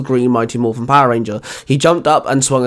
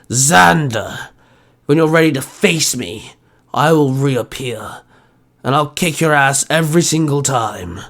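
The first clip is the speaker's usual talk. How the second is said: gloating villain. Acted. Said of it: "Ursa chuckled".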